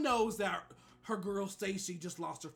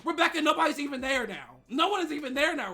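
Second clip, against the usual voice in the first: incredulous; 6 semitones higher, 7 dB louder, faster than usual. Retold or imitated. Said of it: "I was like".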